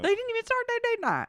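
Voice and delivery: a hint of a Boston accent, high and fast; light Boston accent. Real, not acted. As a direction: slip into a mock Boston accent. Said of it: "why did I just have a Boston accent?".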